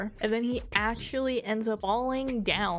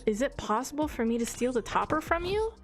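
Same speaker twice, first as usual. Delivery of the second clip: higher, rising incredulous question; lightly acted worried wondering, pitch climbing; mock dismay; 4 semitones higher than usual.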